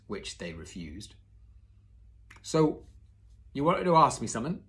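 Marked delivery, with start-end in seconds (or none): 2.4-4.6 Hagrid voice. Acted.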